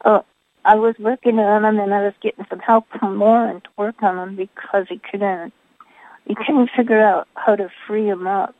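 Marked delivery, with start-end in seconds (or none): 1.8-8.5 muffled, mic covered up. Real, not acted. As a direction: talk with the microphone covered. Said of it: "Your, your voice sounds kinda muffled".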